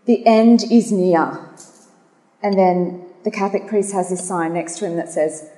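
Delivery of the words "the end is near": slow, lightly put-on Irish accent; amateur go at an Irish accent; attempted Irish accent. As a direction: read the sign out slowly with a hint of Irish. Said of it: "try my best to do an Irish accent".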